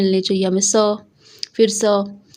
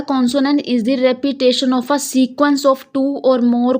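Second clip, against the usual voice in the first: slow reading; much slower than usual. Shown as a demonstration. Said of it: "इन्होंने लिखा हुआ है".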